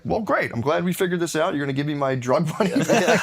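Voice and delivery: high, chipper naive voice; naive cheer. Retold or imitated. Telling the dad about getting his drug money back, naive cheer. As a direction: sound cheerfully clueless. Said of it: "that dumb to be like".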